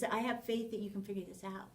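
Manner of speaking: soft, quick, trusting voice; confident encouragement. Shown as a demonstration. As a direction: sound sure they can do it. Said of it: "it's a totally different tone of voice".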